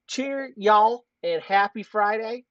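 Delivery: lightly put-on Kentucky accent, drawn out. Reading Kentucky Sign's chat message, light Kentucky accent. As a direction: read it with a hint of Kentucky accent. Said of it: "I'm doing the accent".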